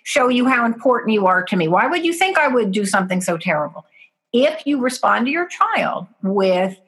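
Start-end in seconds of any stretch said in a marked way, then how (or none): 0.0-3.8 starts high and indignant, then rushes on fast; mock wounded outrage, pouring it out; hurt angry parent. Parent answering the child's accusation with hurt anger, fast. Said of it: "with anger in your voice".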